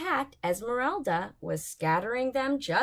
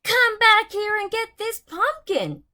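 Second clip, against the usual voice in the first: higher, louder yell after the driver; 11 semitones higher, 8 dB louder than usual. Acted. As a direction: shout at the truck driving away. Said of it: "she yelled".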